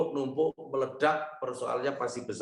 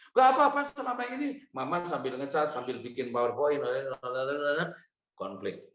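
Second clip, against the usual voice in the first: wife's retort. Retold or imitated. Wife retorts higher in quarrel.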